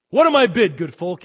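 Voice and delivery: loud, high auctioneer calling the crowd; hammed-up auctioneer shout; auctioneer's cry. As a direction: sell it to the room. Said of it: "he cried".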